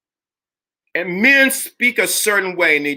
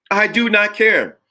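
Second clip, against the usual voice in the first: emphatic repeat; 4 semitones higher than usual. Real, not acted. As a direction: throw it back at the critics. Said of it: "repeats it twice, contrasting".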